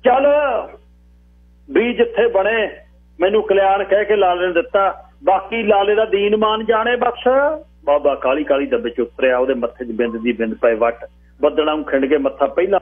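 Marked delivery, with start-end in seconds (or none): 0.0-7.3 put-on high old man's voice washing his hands of it; conceding old man. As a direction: give in grudgingly, pitched high and stretched.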